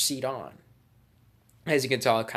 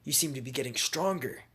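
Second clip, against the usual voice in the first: higher-pitched, bewildered acted voice; alarmed opponent; 6 semitones higher than usual. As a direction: play mild alarm at fading strength. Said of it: "And he's like".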